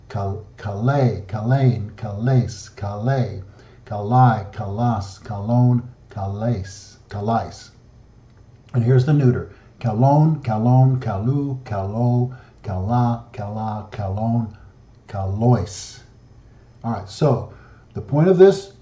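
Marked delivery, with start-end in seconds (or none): 0.1-7.7 kale, kalein, kales and the rest, each stressed on the final syllable; stress on last syllable. Shown as a demonstration. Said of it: "It's always on the last syllable". 9.8-16.0 kalon, kalu, kala and the rest, each stressed on the final syllable; stress on last syllable. Shown as a demonstration. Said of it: "It's always on the last syllable".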